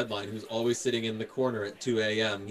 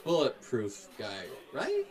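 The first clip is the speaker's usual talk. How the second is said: much higher, starstruck street voice; excited New York passerby; 7 semitones higher, slower than usual. Pretend. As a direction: gawk at a local hero, pitched way up. Voicing excited Harlem locals.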